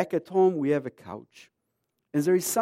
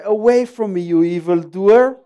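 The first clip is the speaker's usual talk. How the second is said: mock stern rejection; 3 semitones higher, 11 dB louder than usual. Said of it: "I look at him and I say".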